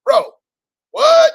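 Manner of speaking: high, loud squeal of disbelief; surprised. Real, not acted. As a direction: shriek it in delighted shock. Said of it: "amused at own preaching".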